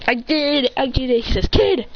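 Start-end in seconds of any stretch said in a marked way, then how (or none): 0.1-1.2 higher-pitched gleeful triumph; acted giddy celebration; excited bragging. Student brags about success. 1.5-1.9 put-on sharp high "kid"; acted exclamation; interrupting call. Teacher cuts off the celebration.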